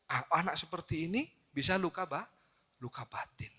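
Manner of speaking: ordinary talk, nothing marked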